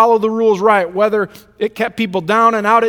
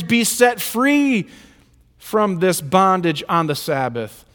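frustrated rebuke; 3 semitones higher than usual. Retold or imitated. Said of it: "Jesus, frustrated".

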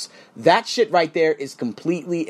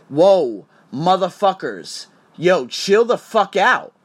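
sharp, louder whoa; startled whoa; 3 dB louder, slower than usual. Real, not acted. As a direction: recoil at the threat. Reacting to the threat.

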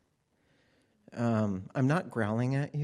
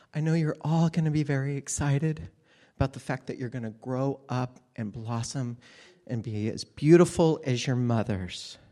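lovely teacher voice; 3 semitones higher than usual. Retold or imitated. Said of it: "very lovely voice".

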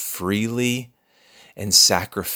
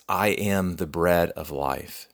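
quiet voice; 4 semitones lower, 5 dB quieter than usual. Retold or imitated. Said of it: "the voice that says".

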